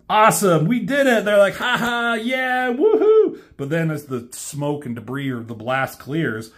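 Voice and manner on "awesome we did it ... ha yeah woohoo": high, loud whoop of triumph; high gleeful cartoon cheer; victory cheer. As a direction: celebrate like kids who just won. Cheering after the explosion.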